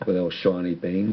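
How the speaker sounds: put-on a touch of Irish accent. Proud father on his daughter acting in Belfast, Irish accent. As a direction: slip lightly into an Irish accent. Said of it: "dropping in the Irish accent".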